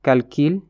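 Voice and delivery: Calcul said the Pulaar way, kal-kil; Pulaar pronunciation. Shown as a demonstration. Teacher gives the Pulaar form after the French calcul. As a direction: Calcul with a plain i sound. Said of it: "woni jati".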